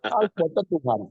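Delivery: a touch of a whiny Javanese complainer; complaining to God in Javanese that it is too heavy; Javanese complaint. Acted. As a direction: moan it in Javanese. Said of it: "Ngomongnya pada Jawa nih".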